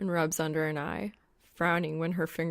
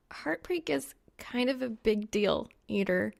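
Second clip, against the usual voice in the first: put-on lightly higher girl's voice; young woman voice; 4 semitones higher than usual. A narrator's reading. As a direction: voice her a bit higher and brighter. Reaper speaks.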